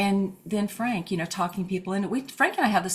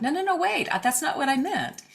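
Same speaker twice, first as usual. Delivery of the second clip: panicked; 9 semitones higher than usual. Retold or imitated. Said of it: "they get in a panic".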